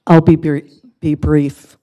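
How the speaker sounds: rough voice, nearly gone; hoarse voice. Real, not acted. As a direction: talk through a failing voice. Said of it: "I'm losing my voice a bit".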